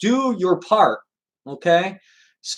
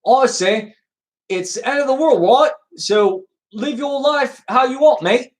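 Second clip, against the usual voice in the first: hint of a botched Irish accent, higher pitched; 4 semitones higher than usual. Streamer reads Ian's chat comment aloud, attempted Irish accent. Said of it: "let me do it in my Irish accent".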